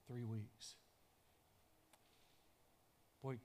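normal talking voice

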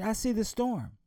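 daughter's voice. Acted.

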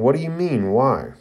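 high-pitched protest, falling on the last word; shocked question. Acted. Shocked Lee questions Guy Sensei, high and dismayed. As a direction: lift it high in disbelief. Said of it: "This shocks everyone".

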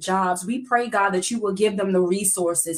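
earnest preaching prayer voice. Acted. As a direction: pray it with steady conviction. Leads a prayer.

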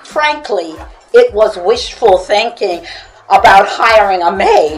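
steady, measured book-reading voice; story reading. Acted. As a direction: read the chapter aloud to the audience. Author reads aloud from her book.

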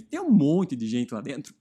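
choking on a sip mid-sentence; words catching in the throat. Real, not acted. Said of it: "me engasguei agora".

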